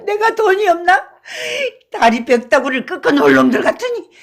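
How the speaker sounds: put-on loud, high drunken rage with a bitter laugh; growing angrier. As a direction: rant at the cheap bastards. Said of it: "더욱 성을 내며".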